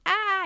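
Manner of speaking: high, brief mock scream; a quick pretend shriek of horror. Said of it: "run away screaming".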